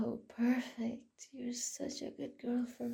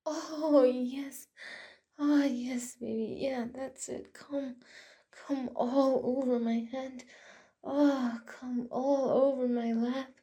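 excited urging; 5 dB louder than usual. Acted. Urging her climax, voice rising.

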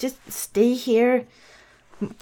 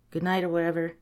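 unvoiced, softer whisper; 5 dB quieter, much faster than usual. Real, not acted. Bedtime storyteller whispering goodnight to the child. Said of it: "bedtime whisper".

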